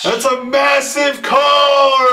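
high, ringing hype call; thrilled shout. Real, not acted. Breaker hyping a massive card to the buyers, thrilled shout. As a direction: proclaim it with real excitement.

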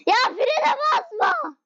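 slow, high whine; drawn-out plea not to brake. Real, not acted. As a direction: stretch it out, begging. Pleading with a slow driver.

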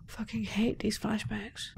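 slow, annoyed whisper. Real, not acted. Annoyed streamer whispering about the flashback.

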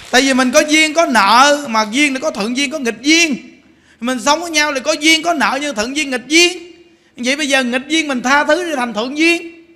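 monk urging the congregation to forgive; full-force preaching. Acted. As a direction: preach it with conviction.

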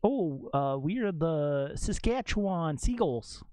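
slow, drawn-out mock Canadian accent; playful Canadian accent. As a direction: stretch it like a proud Canadian. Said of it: "that's so Canadian".

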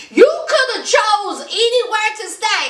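high, mock-outraged complaint; hammed-up jealous protest; indignant rant. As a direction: act out scolding a straying lover. Acting Eve's indignant rant.

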